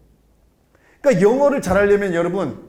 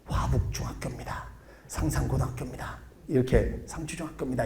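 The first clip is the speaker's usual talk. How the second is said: much softer, breathless whisper; whispered secret; 5 semitones lower, 10 dB quieter, faster than usual. Retold or imitated. Students secretly whisper school names into lecturer's ear, whisper. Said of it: "몰래 내 귀에다 대고".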